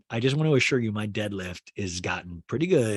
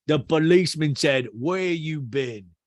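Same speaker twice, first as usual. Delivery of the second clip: louder storyteller impression, drawn-out question; 3 semitones higher, 5 dB louder, slower than usual. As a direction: imitate a man telling his anecdote. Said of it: "So P K goes".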